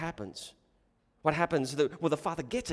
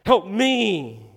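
loud, slow acted plea; desperate cry; 8 dB louder, much slower than usual. Desperate father confessing his need to Jesus, crying out. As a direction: cry out for help, drawing it out. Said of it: "when he sees his desperation".

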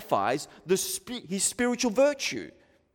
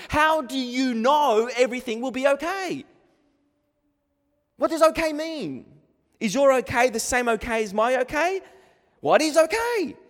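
high, exasperated questioning; pitched-up, incredulous challenge; indignant challenge; 5 semitones higher than usual. Acted. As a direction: demand an answer from empty comforters. Challenging those who offer comfort.

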